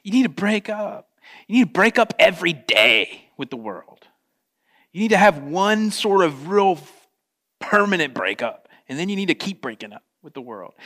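urgent fatherly plea. Retold or imitated. John urging believers to break up with the world, loud and pressing. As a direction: push it like a father staging an intervention. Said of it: "John's like".

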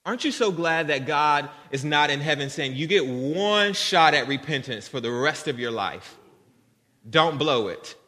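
loud, punchy sermon delivery; emphatic preaching. Acted. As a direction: hammer it home to the congregation. Preaching God's imagined ultimatum.

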